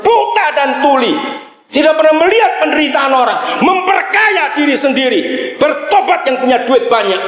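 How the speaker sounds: high-pitched preacher's rebuke in punched phrases; impassioned preaching rebuke. Real, not acted. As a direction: cry out against the congregation's indifference. Preacher rebukes rich Christians.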